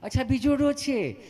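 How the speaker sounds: high, sweet nurse voice; mock female nurse, unhurried and kindly; easy-mannered nurse. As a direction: ask gently in a put-on high voice. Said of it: "તમે કેટલું પ્રેમથી પૂછો છો".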